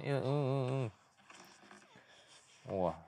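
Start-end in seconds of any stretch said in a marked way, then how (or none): 0.2-0.9 imitated muffled moan. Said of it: "这女的不敢叫太大声".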